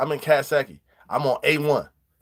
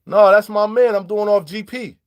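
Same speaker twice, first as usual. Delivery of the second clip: retold reply; 5 semitones higher, 4 dB louder than usual. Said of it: "the man said".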